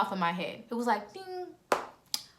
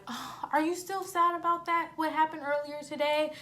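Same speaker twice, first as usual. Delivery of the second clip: high, cooing fake sympathy; put-on sweet, pitying question; feigned concern; 7 semitones higher, 3 dB quieter than usual. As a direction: act concerned for a crying friend, pitched up. Feigned concern to crying friend, retold.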